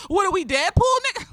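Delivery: high mocking "What are we, Deadpool"; mocking quote. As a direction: sneer it up high like the guy did. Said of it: "this nigga was like".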